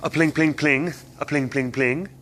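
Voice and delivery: light, rhythmic plinking noises; imitated hail pings. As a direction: mimic small hail bouncing off metal. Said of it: "That'll make things go".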